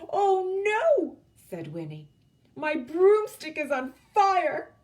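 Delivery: high, loud panicked cry; alarmed cry. Acted. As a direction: yelp at the fire. Broomstick on fire, alarm.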